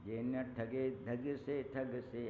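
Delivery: slow, drawn-out verse recital; poem recitation. Acted. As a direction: recite each line slowly, savouring it. Continues the verse. (धीमे स्वर में कविता पाठ)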